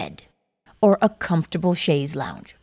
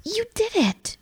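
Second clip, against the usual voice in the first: excited; 14 semitones higher, 4 dB quieter than usual. Pretend. Imagined friend congratulating listener.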